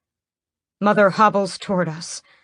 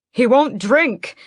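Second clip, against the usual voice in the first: frightened; 8 semitones higher, 6 dB louder, slower than usual. A narrator's reading. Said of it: "I say".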